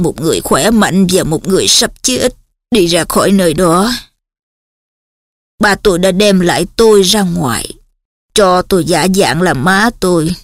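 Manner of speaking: emotionless flat drone; flat monotone. Acted. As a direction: drone on with no feeling. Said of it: "bằng cái giọng bèn bẹt như trên".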